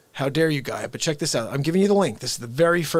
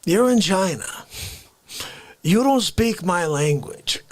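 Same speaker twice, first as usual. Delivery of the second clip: an indignant Bronx café regular demanding respect; Face character. Acted. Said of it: "Face appears".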